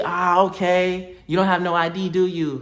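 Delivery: slow, drawn-out questioning voice; mock her suspicious tone; stretched-out nosy questioning; imitating the lady.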